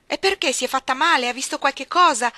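loud, high urgent question; anxious maid. Acted. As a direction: press the child for what she saw. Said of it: "domandò di nuovo Bessie". (la cameriera incalza agitata, voce alta)

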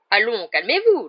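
loud, high urging; called out. A narrator's reading. Minister trying to calm the raging Rogue, calling out. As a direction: call out over the shouting. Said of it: "lança Fudge".

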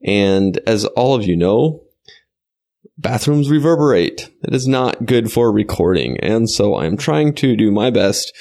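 muffled under a towel; towel over head. Real, not acted. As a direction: voice damped by a towel. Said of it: "I have a towel over my head".

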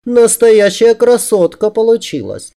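high-pitched female admiration; gushing woman. A narrator's reading. She admires the disguised man, high and gushing. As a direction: praise it in a high, delighted voice.

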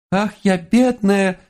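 high, slow falsetto damsel wail; thin falsetto wail. Acted. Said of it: "тонким фальцетом завопил я".

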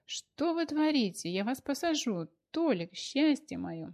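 high, slow horrified wail; horrified cry. A narrator's reading. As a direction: cry out in terror for her lover. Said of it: "чуть с ума не сошла от ужаса".

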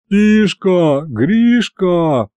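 high, plaintive moaned call; groaning plea. A narrator's reading. Hounded narrator calls his two helpers, high plaintive groan. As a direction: moan the names imploringly. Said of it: "простонал я".

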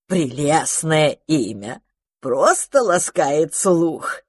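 slow, syrupy delighted gush; gushing magpie. Acted. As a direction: lay the flattery on thick and slow. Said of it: "восхитилась сорока".

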